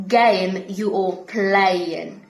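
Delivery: slow, "game" and "playing" with I-like vowels; drawn-out Brummie example line. Shown as a demonstration. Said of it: "we have A".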